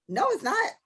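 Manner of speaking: high indignant yell at men; indignant retort. Retold or imitated. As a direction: snap back at him, way up high. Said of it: "That's the first thing I thought".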